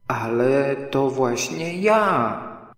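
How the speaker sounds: slow, puzzled surprise; drawn out, can't believe it; greatly surprised. Acted. Pooh answering Rabbit, slow and amazed. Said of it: "ogromnie zdziwiony".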